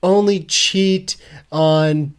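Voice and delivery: mock suave Hitch. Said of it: "And he's like".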